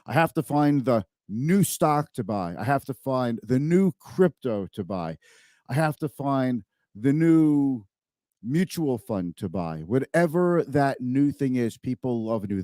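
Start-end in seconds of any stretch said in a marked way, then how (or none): 0.1-9.8 "new" leaned on and drawn out, slower pace; slow down and hit "new" each time; stress on new. Shown as a demonstration. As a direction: lean hard on "new" in every phrase. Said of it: "I wanna emphasize the word new".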